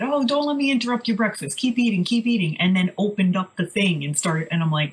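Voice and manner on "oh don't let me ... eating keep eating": higher-pitched, lightly voiced doctor; imitating accented doctor. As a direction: lightly mimic a breezy doctor's reassurance. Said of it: "I don't know what kind of accent he has".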